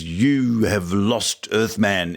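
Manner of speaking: mock French accent, drawn out slowly; slow, lightly hammed-up French accent. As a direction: imitate a French villainess, stretching the words. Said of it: "outrageous French accent when she says".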